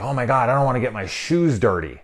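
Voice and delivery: mocking someone precious about their clothes; mock fussy. Reviewer mimics movie character worried about his shoes, mock fussy.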